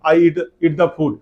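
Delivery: slow, careful English, word by word; slow model sentence. Shown as a demonstration. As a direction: spell it out slowly for the class. (धीरे-धीरे साफ़ बोलकर)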